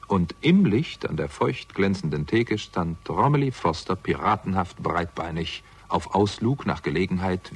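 calm, even narrator's read; story narration. A narrator's reading. Detective narrating his bus ride to the pub. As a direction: tell the story looking back, unhurried. First-person narration between scenes.

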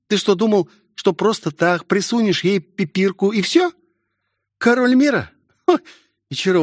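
high-pitched girl, mocking and exasperated; Melvin, incredulous. A narrator's reading. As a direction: berate a dim friend in a high voice.

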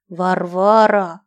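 slow, rasping dying call; hoarse wheeze. Acted. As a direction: rasp the name out slowly. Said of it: "прохрипел старшина".

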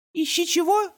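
put-on very high puzzled little-boy question; a tiny boy mishearing; confused toddler. A narrator's reading. Beckett asking his brother in a very high, puzzled voice.

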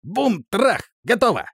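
high, loud gleeful shouts; gleeful commentary. A narrator's reading. Rostrum gleefully calling out the guard's fall. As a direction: call the fall like a jolly crash. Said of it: "сопровождал полёт словами".

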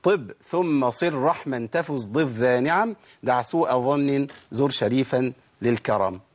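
each word drawn out and spaced; very slow, deliberate recital; slow verse recitation. Shown as a demonstration. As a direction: chant the verse slowly for students to repeat. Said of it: "نقول البيت تاني".

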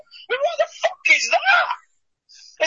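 high, slow disbelieving yell; outraged shout. Real, not acted. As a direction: cry out at the absurdity of it. Outraged at a made-up boxing belt.

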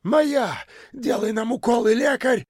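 very high, wild yell; yelling with all might. A narrator's reading. Kalancha screaming for shots, wild high yell. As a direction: howl it at the doctor. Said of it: "вдруг завопил, что есть мочи".

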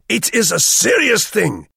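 high, loud, slow and ponderous; weighty German guest. A narrator's reading. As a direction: pronounce every word with heavy importance. Herr Vogel concluding.

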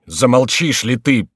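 loud, slow tearful rebuke; tearful outcry. A narrator's reading. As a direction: cry out at the jester, near tears. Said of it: "вскричал Генрих со слезами на глазах". (гневный крик сквозь слёзы)

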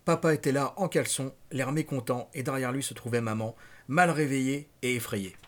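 measured, dramatic novel reading; deliberate audiobook-style narration; story narration. A narrator's reading. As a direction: read the nightmare out like a storyteller. Reads novel aloud.

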